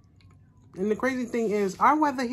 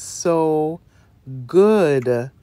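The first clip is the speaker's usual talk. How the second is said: drawn-out delight; 3 semitones lower, 8 dB louder than usual. Real, not acted. Savoring food, drawn out.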